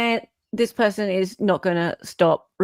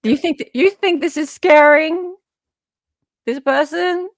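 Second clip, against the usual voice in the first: taunting laugh; 8 semitones higher, 5 dB louder than usual. Real, not acted. Taunting the lawyer.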